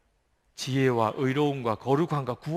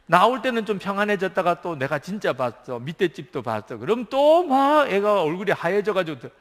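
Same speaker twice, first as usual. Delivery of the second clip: excited storytelling; 5 semitones higher, 6 dB louder than usual. Real, not acted.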